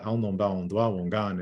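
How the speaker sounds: "Al non ba on doa wongan" with a falling tune on doa; Abenaki pronunciation. Shown as a demonstration. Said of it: "how you'd say the Abenaki language in Abenaki".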